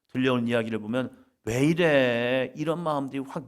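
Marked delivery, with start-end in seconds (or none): 1.4-2.5 drawn-out exasperation. Retold or imitated.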